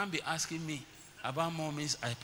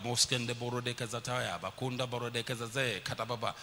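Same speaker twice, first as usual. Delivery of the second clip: re-enacted prayer in tongues; speaking in tongues; 5 semitones lower than usual. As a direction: rattle off a stream of prayer syllables. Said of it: "My twins also speak in tongues".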